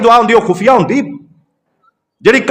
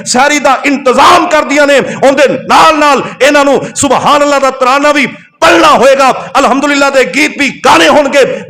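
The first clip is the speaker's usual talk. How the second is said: impassioned preaching; 2 semitones higher than usual. Real, not acted. Preacher telling his brother what the Quran says, impassioned exhortation. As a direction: press each point in a raised preacher's pitch.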